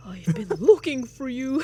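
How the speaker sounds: high, loud character call; put-on character voice. Sister calling out to Michael, high put-on character voice. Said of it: "I don't know why I gave her that voice".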